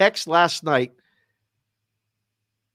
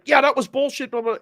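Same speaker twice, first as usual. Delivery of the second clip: mock rant; 12 semitones higher, 5 dB louder than usual. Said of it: "had that rant".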